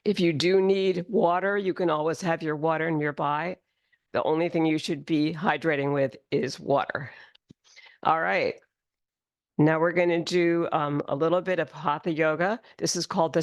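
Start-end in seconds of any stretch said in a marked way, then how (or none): 4.1-8.5 whispered aside; whispering. Real, not acted. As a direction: drop to a whisper. Aside to class.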